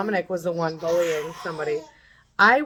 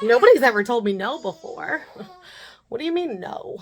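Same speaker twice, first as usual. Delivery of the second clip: higher-pitched mock disbelief; mock stunned kid; 4 semitones higher, 4 dB louder than usual. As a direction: play a kid shocked at being told no. Mimics the stunned kid, mocking.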